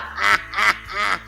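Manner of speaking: pulsing, drawn-out chuckle; laugh. Real, not acted. Guest enjoying the host's song, laughing. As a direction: chuckle in evenly spaced bursts.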